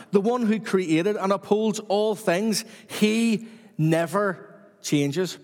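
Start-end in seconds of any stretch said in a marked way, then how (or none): 2.9-5.4 very slow, with 'never' set apart by pauses; emphasis on never. Real, not acted. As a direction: draw out the line and land weightily on 'never'. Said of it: "Put an emphasis on the word never".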